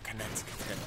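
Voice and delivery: soft mock whisper of the movie girl; imitated whisper. Retelling the creepy trailer to viewers, a mock whisper. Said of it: "whispering something like".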